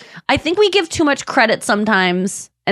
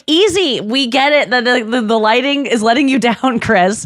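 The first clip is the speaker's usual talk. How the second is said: mock exasperated. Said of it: "I was even like".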